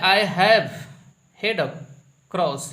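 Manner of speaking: "have" read out loud and punched; reading aloud. Shown as a demonstration. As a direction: read the wrong sentence off the board. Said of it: "यहाँ पे लिखा है". ("have" पर ज़ोर देकर पढ़ना)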